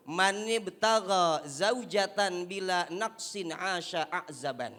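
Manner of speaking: slow chanted Arabic recitation; recited Arabic quote. Acted. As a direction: recite it reverently. Quoting Arabic saying.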